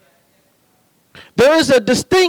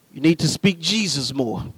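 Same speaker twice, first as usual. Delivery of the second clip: grandfather; 8 semitones lower, 7 dB quieter than usual. Retold or imitated. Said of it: "my grandfather would say to me".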